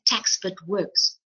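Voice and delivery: slow words around a sip of water; talking between sips of a drink; while sipping a drink. Real, not acted. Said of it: "I'm just drinking every now and again".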